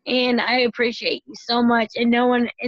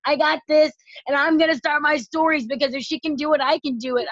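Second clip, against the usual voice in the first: higher, fired-up pep talk to herself; pumped-up self-talk; 5 semitones higher than usual. Retold or imitated. Leader recalling sick days, fired-up and higher. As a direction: lift it up, you've got this.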